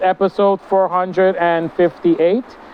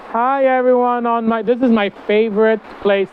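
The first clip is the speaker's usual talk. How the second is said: higher bright greeting; 6 semitones higher than usual. Shown as a demonstration. Greeting viewers, sung out high. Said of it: "I don't think I ever said that before".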